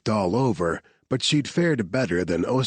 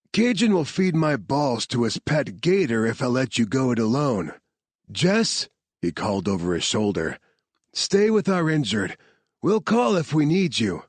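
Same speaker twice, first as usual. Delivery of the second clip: lightly voiced, higher commands; soldier orders; 5 semitones higher than usual. Soldier ordering the medic to stay back, lightly voiced. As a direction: take charge and follow her. Marcus follows, gives orders.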